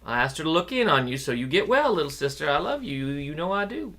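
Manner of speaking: tender mother. Acted. Mother comforting daughter.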